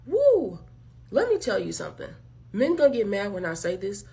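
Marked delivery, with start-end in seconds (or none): 0.1-0.6 high, loud "woo"; mock whoop. Woman imitating the man who messaged her, mock whoop. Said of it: "he act like".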